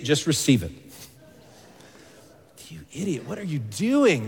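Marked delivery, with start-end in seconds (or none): 2.7-4.3 softly begun exasperated scolding; mock reproach to a foolish friend; Paul. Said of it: "that's Paul's tone here".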